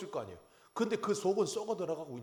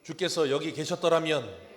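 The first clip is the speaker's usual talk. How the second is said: congregation reading; 4 dB louder, slower than usual. Real, not acted. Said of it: "시작".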